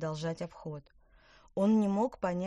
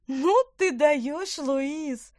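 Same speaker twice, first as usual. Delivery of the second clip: high loud exasperated cry; exasperated groan; 10 semitones higher, 10 dB louder, much slower than usual. Acted. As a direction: groan at your brother. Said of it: "простонала Лина".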